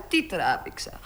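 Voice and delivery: τι τράβηξα dropped low and soft; sighing echo. Acted. Παραπονιέται για το ταξί. (αναστεναγμός, τι τράβηξα χαμηλά και σιγανά)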